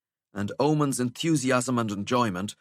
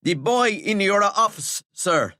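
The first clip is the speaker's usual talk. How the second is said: out of breath; 12 semitones higher, 7 dB louder, slower than usual. Acted. Breathless prefect reporting.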